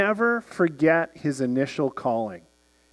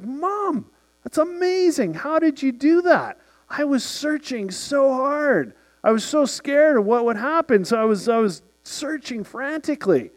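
put-on much higher, gushing kid voice full of wonder; high-pitched awestruck boy pouring it out; amazed teenage son; 9 semitones higher than usual. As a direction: play the stunned teen raving to his mom. Son amazed at mom finding lens.

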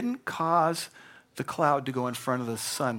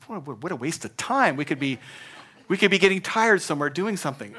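louder, faster, laughing protest at wasted time; mock-incredulous objection; 3 semitones higher, 3 dB louder than usual. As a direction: scoff at sitting by the pool, half-laughing. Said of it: "I said".

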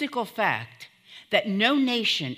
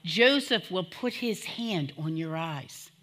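emotional; 3 semitones lower than usual. Real, not acted. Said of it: "forgive me 'cause I'm gonna be emotional today".

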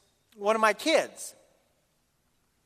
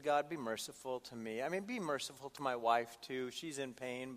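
retold prayer; 5 semitones lower, 9 dB quieter than usual. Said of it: "I prayed these words".

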